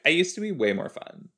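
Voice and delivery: mock a teen who thinks she's old. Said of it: "you can't, like".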